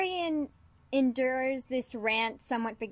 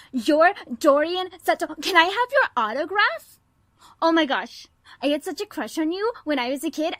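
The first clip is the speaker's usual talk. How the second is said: louder and higher, fast excited fangirl babble; gushing fan; 4 semitones higher, 4 dB louder than usual. Acted. Daughter gushes at the detective she idolized, breathless fangirl gushing. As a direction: gush at your childhood crush, barely breathing.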